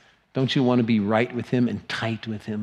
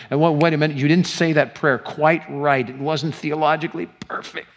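fussy God; 4 semitones higher, 5 dB louder than usual. Pretend. God imagined as fussy critic.

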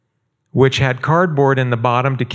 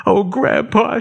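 put-on high, small child's plea; a little girl's high, pleading voice; 9 semitones higher than usual. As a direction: sound like an eight-year-old girl about to cry. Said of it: "she says".

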